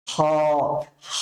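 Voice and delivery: হ rasped from the very end of the throat; throaty kh. Shown as a demonstration. Teacher repeats the letter for pupils, throaty হ. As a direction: scrape each হ out from the end of the throat. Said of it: "কণ্ঠনালীর শেষের অংশটাকে ব্যবহার করতে হবে".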